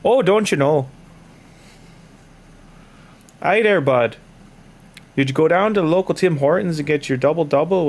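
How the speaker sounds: hammed-up Canadian accent with swooping pitch; playful exaggerated Canadian accent; stereotype Canadian. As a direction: lay on a folksy Canadian lilt. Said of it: "I could go all day".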